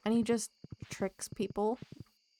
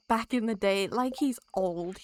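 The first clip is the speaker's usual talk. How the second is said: mock old-timer voice; 4 semitones higher, 5 dB louder than usual. A streamer teases an old character, mock old-timer voice.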